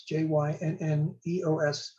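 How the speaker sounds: spelling repeated letter by letter; spelled out. Shown as a demonstration. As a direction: run through the letters evenly. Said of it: "It's spelled".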